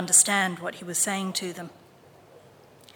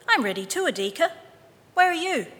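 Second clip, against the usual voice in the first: calling out; 8 semitones higher, 3 dB louder, faster than usual. A narrator's reading. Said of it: "Mama Panya called".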